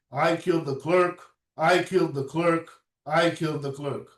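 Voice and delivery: the officer reading the transcript aloud in court, toneless; read without intonation. Shown as a demonstration. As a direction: recite it like a transcript with no feeling. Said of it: "without the intonation".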